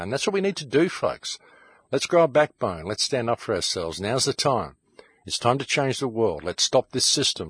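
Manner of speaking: rally the viewers, fired up and angry; impassioned rant. Real, not acted. Host ranting to his followers about war, fired up. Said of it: "Sorry about that if I got a little emotional".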